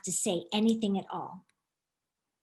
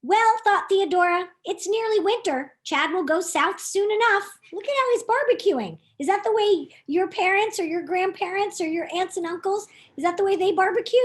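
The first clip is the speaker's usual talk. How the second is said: lively; 7 semitones higher than usual. Acted. Theodora's thought, asides to kids.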